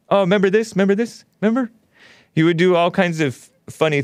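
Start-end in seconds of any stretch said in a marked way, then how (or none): 0.1-1.7 high-pitched mock Hispanic accent; imitated Hispanic accent. Host recalls the comedian's TV routine, mock Hispanic accent. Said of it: "He knew how to do this Hispanic accent".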